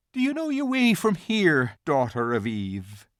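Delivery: a gentle faun giving in. A narrator's reading. Faun's character voice.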